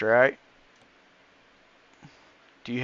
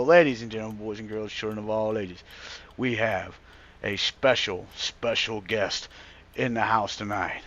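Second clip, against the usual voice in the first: ringmaster; 4 semitones lower than usual. Pretend. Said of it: "Hang on, I gotta do that right".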